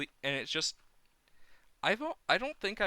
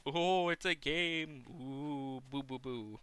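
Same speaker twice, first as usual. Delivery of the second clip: mocking whine; 2 semitones higher, slower than usual. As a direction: taunt them like a sulky kid.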